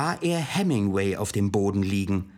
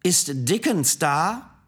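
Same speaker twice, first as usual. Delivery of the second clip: put-on Irish accent; 5 semitones higher, slower than usual. A narrator's reading. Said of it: "fragte jemand mit irischem Akzent".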